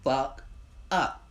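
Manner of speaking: high, loud, exclaiming "hold up"; stunned disbelief. Retold or imitated. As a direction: cry out in shock. Retelling shocked reaction.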